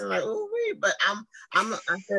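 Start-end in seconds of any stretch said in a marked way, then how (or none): 0.2-0.7 high squealing ooh wee; excited. Retold or imitated. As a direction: squeal it out, thrilled and nervous. Reacting to rehearsal question.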